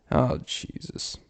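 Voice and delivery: soft, slow, breathy groan; muted groan. Acted. Comic groans at his own cheese joke, muted. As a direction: sigh it out slowly under your breath.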